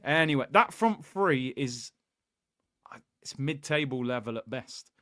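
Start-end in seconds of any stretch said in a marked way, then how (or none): 3.2-4.9 soft whispered aside. Real, not acted. Fan whispering his verdict on the front three to viewers. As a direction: drop to a whisper to confess it.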